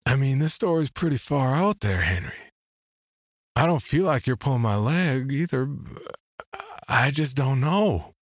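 halting scepticism, slowing at the end; choosing words carefully. Acted. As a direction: tread carefully while voicing disbelief. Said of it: "trying to choose my words carefully".

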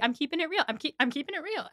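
mildly mocked defensive insistence; defensive boyfriend. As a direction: imitate him insisting under fire. Acting Murray's defence while yelled at.

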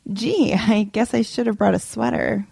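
mild mock-innocent hint; passive-aggressive. Guest hinting that the place is cold, mildly passive-aggressive. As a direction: open on a pointed little "gee", then understate it. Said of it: "First passive-aggressive remark".

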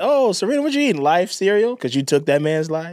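squeaky, teasing taunt; mock her in a high sing-song. Mocking voice at Serena.

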